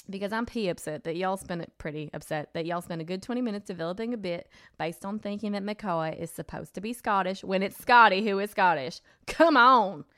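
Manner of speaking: lightly voiced Southern accent, exasperated at the end; put-on y'all accent. Host reading an upset fan's tweet, light Southern accent. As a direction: read the complaint in a mild Southern accent. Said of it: "I'm only doing this accent because she said y'all".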